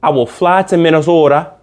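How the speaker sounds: lightly put-on Minnesota accent; a hint of badly faked Minnesota accent; attempted Minnesota accent. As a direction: have a loose go at a Minnesota accent. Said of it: "that's not their accent".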